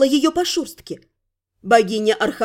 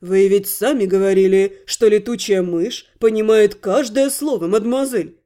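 lower, dryly ironic quoting; 5 semitones lower than usual. Acted. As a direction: tease her with her own words. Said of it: "иронично процитировал инкуб".

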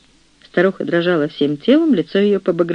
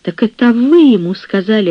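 higher and louder, caught off guard; gasping realisation; 5 semitones higher, 4 dB louder than usual. Acted. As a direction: gasp it as it dawns on you. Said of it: "ахнула Мария".

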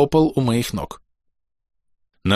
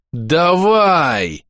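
full-throated yell, pitched up; desperate battle yell; yelling at the top of his lungs; 6 semitones higher than usual. Acted. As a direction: roar it out, all in. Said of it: "воплю во всё горло".

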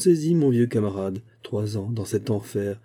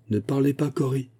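brusque; 5 semitones higher than usual. Acted. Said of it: "lui dit-il avec brusquerie".

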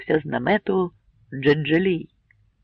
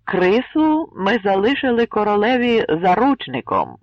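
solemn; 5 semitones higher, 5 dB louder than usual. A narrator's reading. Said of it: "урочисто промовив Гладкий".

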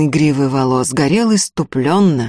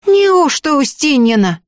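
a much higher, amazed exclamation; astonished; 11 semitones higher, 5 dB louder than usual. A narrator's reading. The girl is astonished by the sorcerer's claim, amazed. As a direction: gasp it out in disbelief. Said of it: "поразилась Акулина".

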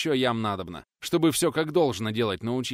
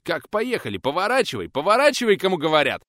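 rising, louder frantic command; alarmed shout; 9 semitones higher, 9 dB louder than usual. Acted. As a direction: yell to turn the sleigh around. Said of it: "всполошился пенсионер".

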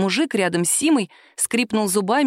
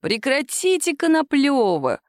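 weary; 6 semitones higher, slower than usual. A narrator's reading. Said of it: "устало сказал".

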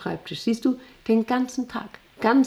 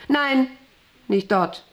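sudden, higher-pitched "no"; urgent, raised-pitch refusal; sharp objection; 5 semitones higher, slower than usual. Acted. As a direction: stop him in his tracks. Stops Tom sitting there.

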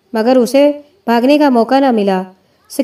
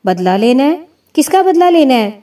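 incredulous. Acted. Mother shocked at revenge talk.

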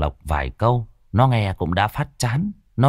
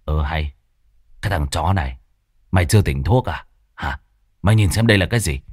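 lower, rough rebuke; gruff scolding friend; 5 semitones lower, faster than usual. Acted. Tuất scolding Mạnh for still being drugged, gruff. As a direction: snap at him to look what it is.

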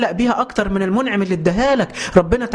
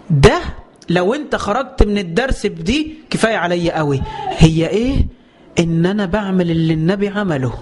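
emphatic shout. Real, not acted. Preacher urging listeners to keep this lesson, shouting. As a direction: drive the point home to the congregation. Preacher stressing main point.

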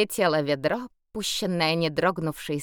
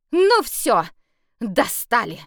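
angry; 5 semitones higher, 6 dB louder, slower than usual. A narrator's reading. Sasha fed up.

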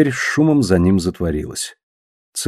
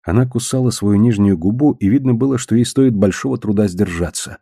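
plain reading voice

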